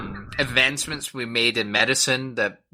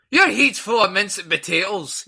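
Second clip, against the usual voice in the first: imitating Uncle Ronnie; 7 semitones higher than usual. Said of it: "He always yells that one out".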